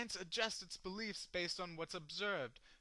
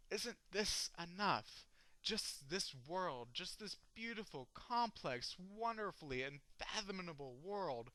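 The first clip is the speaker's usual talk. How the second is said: softly marvelling, savouring each phrase; tender wonder; 2 semitones higher, 4 dB quieter than usual. Acted. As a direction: ease into soft, unhurried awe. Poem turns to awed plea.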